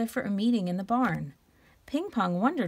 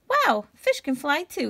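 giggly pig; 6 semitones higher, 5 dB louder than usual. Acted. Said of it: "he giggled".

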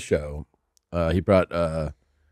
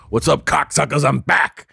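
lightly voiced Joey greeting; 5 semitones higher than usual. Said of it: "he just does his Joey thing".

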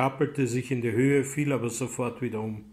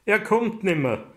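a piercing scream, much higher and louder; 8 semitones higher, 5 dB louder than usual. A narrator's reading. Anna crying out at her brother's death, screaming. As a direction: shriek the word in despair. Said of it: "schrie Anna".

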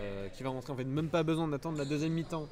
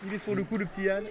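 excited sports commentary; 5 semitones higher, 7 dB louder than usual. Real, not acted. Live play-by-play build-up.

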